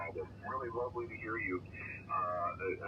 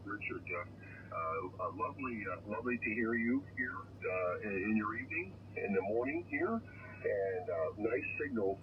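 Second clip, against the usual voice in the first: thin, crackly voice over a radio link; crackly military radio. Real, not acted. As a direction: speak as if through a noisy radio receiver. Distant station heard over radio.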